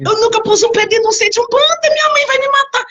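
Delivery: rising into a high, frantic complaint; panicked protest. Retold or imitated. Retells panicked protest to mother-in-law. (protesto apavorado, voz subindo)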